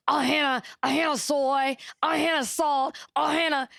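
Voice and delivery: put-on high, sweet cooing little girl. Quoting a TikTok girl offered snacks, high childlike coo. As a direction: coo it like a small child getting treats. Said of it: "TikTok where the little girl's like".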